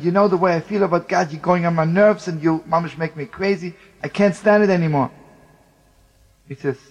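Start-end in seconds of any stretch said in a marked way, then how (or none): 0.0-5.1 retold angry outburst, louder; exasperated outburst. Soldier telling comrade he gets on his nerves, exasperated. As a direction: build to a loud, fed-up finish.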